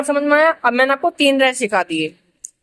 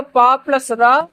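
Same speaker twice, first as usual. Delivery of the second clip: पा plus र said slowly, piece by piece; slow sound build; much slower than usual. Shown as a demonstration. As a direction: join the sounds slowly for pupils. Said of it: "teacher builds syllable". (धीरे-धीरे जोड़कर)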